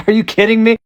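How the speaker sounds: high, loud disbelief; exasperated outburst; outraged. Real, not acted. Outraged at filter.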